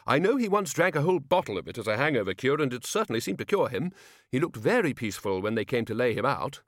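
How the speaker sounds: a hint of a hearty, blustering archchancellor; cheerfully blunt old wizard; lightly voiced Ridcully.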